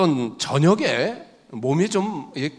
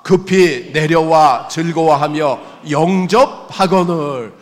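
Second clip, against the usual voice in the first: slow and louder, read together; scripture read aloud; 7 dB louder, slower than usual. Shown as a demonstration. Pastor leading the church in reading verse six, slow and loud. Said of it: "우리 다 같이 읽겠습니다".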